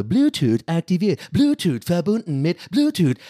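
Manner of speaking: slow, robotic announcement voice; computer voice. Retold or imitated. Mocking his headphones for listeners in a slow robotic computer voice. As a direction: read it out like a monotone machine. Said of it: "diese dumme Computerstimme immer so".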